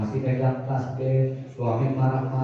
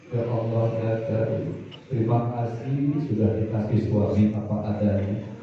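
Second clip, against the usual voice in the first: lightly voiced wife's humble prayer, a bit lower; wife praying to God; 3 semitones lower than usual. Wife confiding her marriage to Allah, gently pleading.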